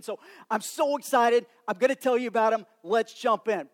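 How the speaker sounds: bubbling over with excitement; excited. Retold or imitated. Writer voiced as eager.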